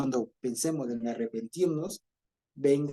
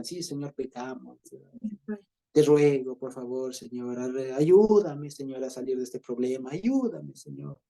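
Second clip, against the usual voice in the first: mock desperate plea. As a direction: beg the Lord like a sinner in trouble. Mock plea to God for help.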